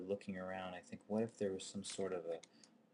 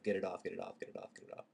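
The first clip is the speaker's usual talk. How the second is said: frantic panic; faster than usual. Retold or imitated. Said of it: "this sort of".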